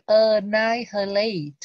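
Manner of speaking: annihilate slowed, second syllable stressed, "a-NAI-hi-late". Shown as a demonstration. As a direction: model annihilate slowly, hitting the second syllable. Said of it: "Mà nó là nhận chữ thứ hai".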